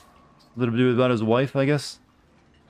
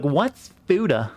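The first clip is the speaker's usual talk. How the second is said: slow, higher, faux-naive question; fake innocent; 4 semitones higher, much slower than usual. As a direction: play dumb, wide-eyed and slow. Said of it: "when chat pretends they don't know".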